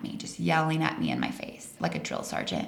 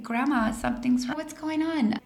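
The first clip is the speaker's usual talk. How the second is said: worried; 7 semitones higher than usual. Retold or imitated. Worried call to grandma.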